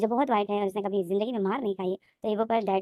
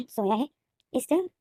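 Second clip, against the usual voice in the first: surprised disbelief; 3 semitones higher than usual. Retold or imitated. Son shocked at bedtime excuse.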